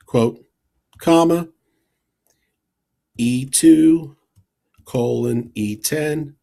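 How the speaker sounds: reading out a formula piece by piece; dictating. Shown as a demonstration. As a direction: spell out each part with pauses. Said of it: "I'll just talk us through".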